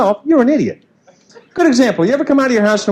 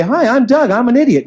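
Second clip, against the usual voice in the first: group meeting intro; 4 semitones higher than usual. Pretend.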